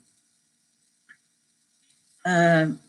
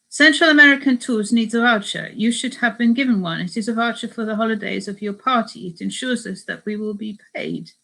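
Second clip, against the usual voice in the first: insistent, badly faked Spanish accent; poor Spanish accent; 3 semitones higher, 4 dB louder than usual. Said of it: "I'm no good at doing a Spanish accent".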